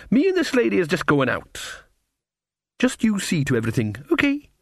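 put-on countrywoman voice, in charge; bossy cook figure. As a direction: give a helper orders in character. Mrs Pleasant instructs sub-cook.

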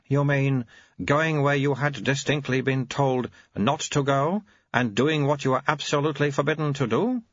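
put-on very high, babyish old abbot voice; an ancient mind in a baby's mouth; high piping infant abbot; baby-bodied old abbot. Abbot questions.

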